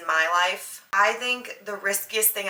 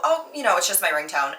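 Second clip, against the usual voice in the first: most casual thing. Retold or imitated. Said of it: "as if it's the most casual thing".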